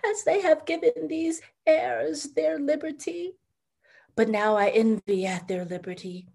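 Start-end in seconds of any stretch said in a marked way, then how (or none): 0.1-3.4 retold loud cry. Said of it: "cried aloud".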